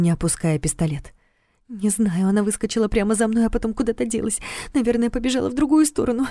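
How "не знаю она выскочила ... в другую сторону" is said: rising tearful voice; upset, close to crying; terrified pleading hostage. Acted. Tearful frightened girl answers.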